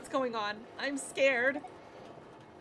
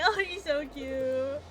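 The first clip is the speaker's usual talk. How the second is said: gushing; 5 semitones higher, 4 dB louder, slower than usual. Real, not acted. Gushing over cute character.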